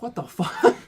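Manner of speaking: baffled laugh after the thief drops the bike; laughing disbelief. Retold or imitated. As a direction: crack up in disbelief.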